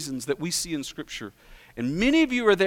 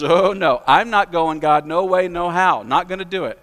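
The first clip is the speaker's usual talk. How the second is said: a hint of a stubborn Jonah, louder; louder, digging in his heels, no way; preacher lightly voicing Jonah's refusal to God, louder; Jonah refusing; 6 dB louder than usual.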